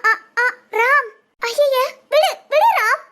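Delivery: coy, rising let-go plea; shy protest. Acted. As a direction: bashfully push him away.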